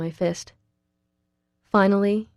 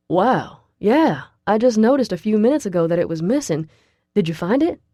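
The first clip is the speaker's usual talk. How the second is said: eager, louder and brighter; light up with eagerness; excited; 3 semitones higher, 5 dB louder than usual. Acted. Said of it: "he asks me excitedly".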